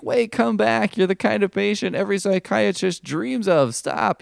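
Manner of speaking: high, pleading cartoon psychiatrist; desperate shrink voice. Psychologist begging Spider-Man to return, high mock pleading. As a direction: beg him to come back in a silly high voice.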